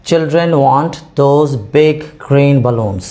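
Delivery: slow, clear model sentence, big before green; slow correct example. Shown as a demonstration. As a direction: read it as the correct model, word by word. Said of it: "हमने इनमें पहले लिखा है बिग".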